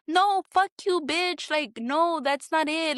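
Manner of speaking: angry at the message sender; angry retort. Real, not acted. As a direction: snap back at the critic.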